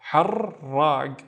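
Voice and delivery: "har, rag" with r sounded in both syllables; "har, rag" split at the doubled r. Shown as a demonstration. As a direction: roll the r closing "har" and opening "rag". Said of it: "we need to pronounce the ra twice".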